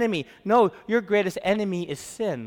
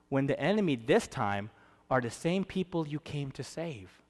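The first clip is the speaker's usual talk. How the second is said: ordinary delivery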